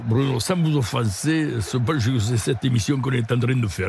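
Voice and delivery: light mock south-west French accent; southwest French accent. Actor answering the host in a light south-west French accent. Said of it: "là, je perds l'accent".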